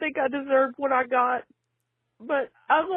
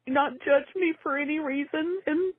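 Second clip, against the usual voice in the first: crying. Real, not acted. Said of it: "I'm crying".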